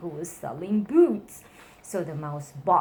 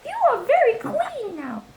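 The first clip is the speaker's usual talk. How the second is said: a crowd bellowing at the mouse; whole town shouting; 10 dB louder than usual. A narrator's reading. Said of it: "the people in the town cried".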